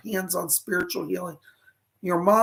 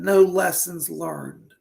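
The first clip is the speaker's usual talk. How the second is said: slow, deliberate; 3 dB louder, slower than usual. Retold or imitated. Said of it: "She just said".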